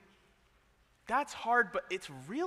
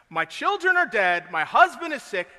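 Job's wife grieving; 6 semitones higher, 13 dB louder than usual. Retold or imitated. Job's wife voiced in sermon.

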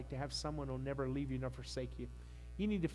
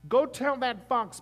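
slow, higher and much louder; emphatic repeat; 9 semitones higher, 12 dB louder, slower than usual. Retold or imitated. Pastor repeating Jesus's defiance to the congregation, loud and slow. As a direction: punch it out the second time.

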